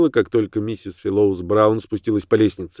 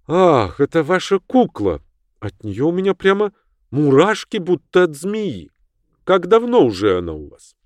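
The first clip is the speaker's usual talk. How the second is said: character voice; 8 semitones higher than usual. Acted. Character voice, uneasy client.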